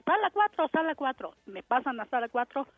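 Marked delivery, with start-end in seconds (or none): 0.0-1.3 retold calling out. Doctor calling for delivery room four, retold yell. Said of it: "Se pone a gritar".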